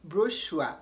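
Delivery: brochure said bro-SHOO-a, rhyming with Joshua; American brochure. Shown as a demonstration. Teacher showing students the American brochure, rhyming with Joshua. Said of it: "to rhyme with Joshua".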